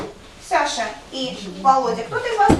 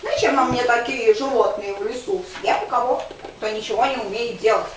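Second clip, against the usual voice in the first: bear voice. Acted. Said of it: "а я заколдовалась в медведя". (медленный грозный медведь)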